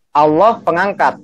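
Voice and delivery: ALLAH set apart, then pengangkat falling; slow, with a beat after ALLAH; intonasi jelas. Shown as a demonstration. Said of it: "pakai intonasi yang jelas". (intonasi jelas, jeda setelah ALLAH)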